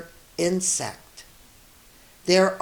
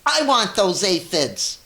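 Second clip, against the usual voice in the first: grouchy demand; 3 semitones higher, 5 dB louder than usual. Acted. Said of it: "shouted the grouchy ladybug".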